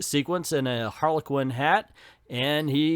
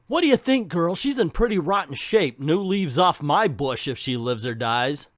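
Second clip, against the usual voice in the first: lightly voiced Ivy talking to her horse; Ivy's voice; 2 semitones higher than usual. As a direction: tease like a wry Ivy. Ivy voiced reading comic.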